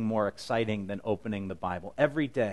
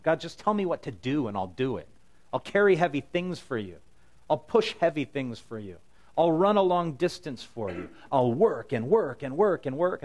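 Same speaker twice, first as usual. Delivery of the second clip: eager pledge; 4 semitones higher, 4 dB louder than usual. Retold or imitated. Eager believer pleading to God.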